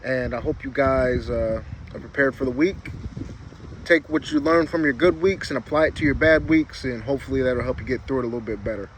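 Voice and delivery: talking around a packed lip; words slurred by a wad of dip; lip full of dip. Real, not acted. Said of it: "I already got my lip packed".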